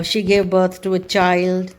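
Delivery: slow and clear, birthday stressed; slow example. Shown as a demonstration. Teacher reading a birth example to students, slowly. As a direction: read it out slowly for learners. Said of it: "बर्थ यानी कि जन्म".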